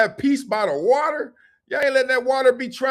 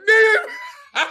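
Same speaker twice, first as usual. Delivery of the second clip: dog voice; 12 semitones higher, 5 dB louder than usual. Retold or imitated. Voicing the dog.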